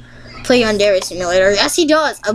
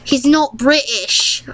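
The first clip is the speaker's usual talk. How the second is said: higher, drawn-out mock British accent; slow fake British, pitched up; bad British accent; 4 semitones higher, slower than usual. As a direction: put on a hammy, unconvincing British accent. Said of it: "that was a bad accent".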